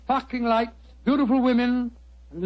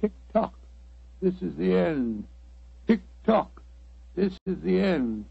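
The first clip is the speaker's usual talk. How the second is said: ominous clock voice; 2 semitones lower, 4 dB quieter than usual. Retold or imitated. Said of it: "seems to say".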